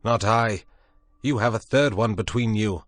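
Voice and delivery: flat refusal. A narrator's reading. Prendick bluntly refuses Moreau's revolvers, loud and suspicious.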